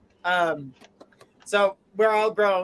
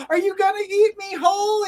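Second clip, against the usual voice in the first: squeaky, much higher, innocent; high girlish question; 12 semitones higher, 3 dB louder than usual. Acted. Red asking the wolf in a high, innocent squeak. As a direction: ask it like a naive little girl. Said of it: "And she says".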